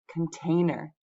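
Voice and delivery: "Container" with the middle syllable carrying the stress. Shown as a demonstration. Teacher showing students a three-syllable word, middle syllable of "Container" stressed. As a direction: lean on TAIN in "Container". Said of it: "the middle syllable gets the stress".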